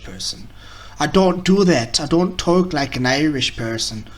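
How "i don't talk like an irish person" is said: hammy, badly faked Irish accent; terrible Irish accent. Shown as a demonstration. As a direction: attempt an Irish accent and botch it. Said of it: "that was a terrible Irish accent".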